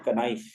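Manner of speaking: k-NIFE with the K spoken; कनाइफ said with the K clearly voiced before the N; sounding the K. Shown as a demonstration. Teacher showing the wrong spelling-pronunciation, K sounded out. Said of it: "के के तलफ़ुज़ के साथ".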